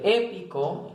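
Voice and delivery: "épico" with stress on the opening E. Shown as a demonstration. Teacher gives an esdrújula example, first vowel stressed. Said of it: "en la E".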